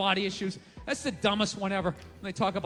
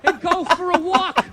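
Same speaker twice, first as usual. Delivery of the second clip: indignant rant; 6 semitones higher, 9 dB louder than usual. Acted. Comic ranting, loud laughing crowd.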